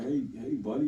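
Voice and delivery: lightly voiced overly polite greeting; a hint of a chipper nice-guy hello; mock friendly square. Mocking how he'd greet gangsters the wrong way, lightly polite. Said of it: "I might have to talk like that".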